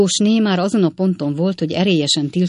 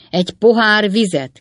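high, loud exclamation; irate raised voice; hot-tempered cry; 5 semitones higher, 6 dB louder than usual. A narrator's reading. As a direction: call it out in a temper. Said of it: "kiáltotta az indulatos Wardle úr".

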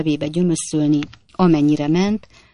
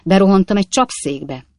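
brisk, choppy braggart voice, louder; boastful Jingle; 3 dB louder than usual. Acted. Stranger brushing off the coachman fight, boastful rattle.

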